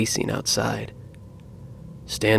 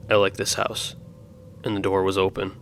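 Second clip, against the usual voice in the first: flat, cold, emotionless monotone. Retold or imitated. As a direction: say it dead flat with no feeling. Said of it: "in a cold and monotone voice".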